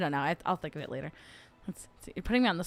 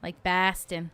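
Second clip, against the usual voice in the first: put-on Boston accent on "Bastin"; New England accent; 3 semitones lower, slower than usual. Streamer naming one kind of accent, Boston accent. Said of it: "New England is my favorite accent".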